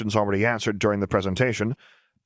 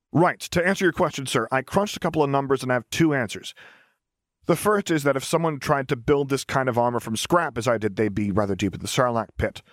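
put-on cheerful young engineer; 5 semitones higher than usual. Lars answers the cost question.

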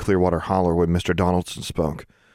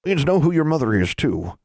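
lightly voiced old woman; a hint of a country granny; 9 semitones higher than usual. A narrator's reading. Granny Pritchard speaks.

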